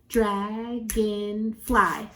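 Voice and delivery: "Dragonfly" slowly in three separate beats; syllable by syllable. Shown as a demonstration. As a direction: sound out each syllable of "Dragonfly". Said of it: "Three syllables in dragonfly".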